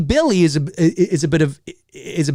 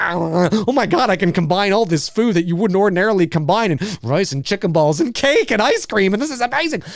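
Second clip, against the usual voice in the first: buffet excitement; 4 semitones higher than usual. Retold or imitated. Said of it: "you're like".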